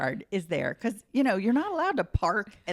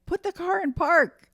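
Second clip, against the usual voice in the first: guard's order; 11 semitones higher, 6 dB louder than usual. Retold or imitated.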